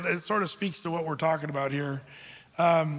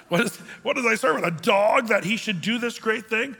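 mock indignation; 5 semitones higher, 5 dB louder than usual. Replays Hazael's offended question.

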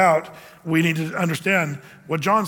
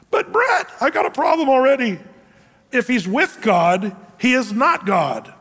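lightly voiced objector, higher and louder at the start; doubting listener; 5 semitones higher, 3 dB louder than usual. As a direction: play the puzzled churchgoer protesting to the pastor. Voicing a doubting congregant's objection.

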